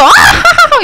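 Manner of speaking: very high, acted laugh; hammed-up high-pitched laughing fit; mom bursting into laughter. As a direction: burst out in an imitated cackle. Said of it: "이러더니 막 웃어".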